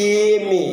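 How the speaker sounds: এমএ said starting with a clear "এ" sound; pronunciation of এমএ. Shown as a demonstration. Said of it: "প্রথমে আমরা এ বলতে হয়". (এমএ উচ্চারণ, শুরুতে "এ" ধ্বনি জোর দিয়ে)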